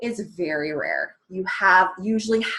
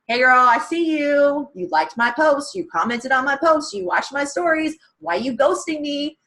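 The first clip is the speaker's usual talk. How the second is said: playful call-out; 4 semitones higher than usual. Retold or imitated. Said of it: "pretty hilarious how I say it".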